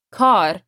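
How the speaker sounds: کار with its A held long. Shown as a demonstration. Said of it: "It's a long A".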